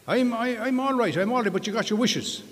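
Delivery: high excited little leprechaun. Acted. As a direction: pitch it way up like a leprechaun. Leprechaun voiced in joke.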